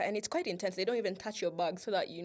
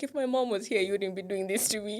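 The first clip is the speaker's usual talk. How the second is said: if my mom was here; indignant inner protest; 5 dB louder than usual. Retold or imitated. Student to airport officer, a louder, indignant inner protest. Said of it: "But I'm just like".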